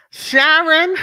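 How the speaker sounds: loud, high name with laughter; laughing yell; laughing shout. Real, not acted.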